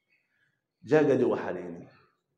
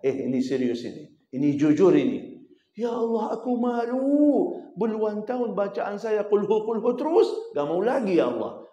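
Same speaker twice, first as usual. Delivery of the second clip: higher, louder, earnest plea; earnest prayer; 9 semitones higher, 5 dB louder than usual. Acted. Preacher voicing a repentant worshipper, earnest and higher. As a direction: plead honestly, ashamed before God.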